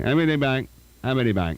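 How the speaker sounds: "M B D Bank" run together indistinctly; mumbled speech. Retold or imitated. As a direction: imitate a niece slurring "M B D Bank". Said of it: "she has that same problem".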